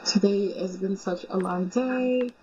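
put-on a tired girlfriend at the end of a long day, sleepy; sleepy girl. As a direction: drag the words out like she can barely stay awake. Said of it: "Oh, not her sleepy girl".

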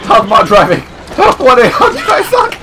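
laughing through a mock hotline joke. Real, not acted. Player laughing at his own crashes while driving.

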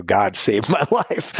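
slow, over-eager retold declaration; spitting emphasis. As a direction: draw it out with mock fervour, breaking into a laugh. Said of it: "I practically spit on her when I said".

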